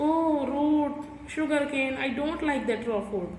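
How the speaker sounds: whiny, near-tears complaint in a put-on voice; half-hearted fake crying over the food; mock crying. Shown as a demonstration. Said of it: "he's saying in a low voice, like crying".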